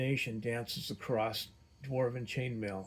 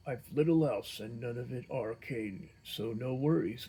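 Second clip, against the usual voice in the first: gruff voice. Acted. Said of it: "gruffly responds in Dwarvish".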